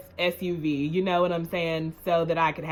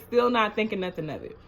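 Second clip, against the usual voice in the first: quick repeat; faster than usual. Shown as a demonstration. Repeating to viewers she suspected nothing, quickly. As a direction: rattle it off as an echo.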